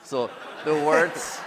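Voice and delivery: slow, high, loud German accent; playful mock German accent. Shown as a demonstration. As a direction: lean into a thick German accent. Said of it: "I should say this with a German accent".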